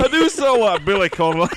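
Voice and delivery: loud, high mock Scottish; badly faked Scottish caricature; bad Scottish accent. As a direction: keep up the hammy Scottish accent. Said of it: "I can do a Scottish accent".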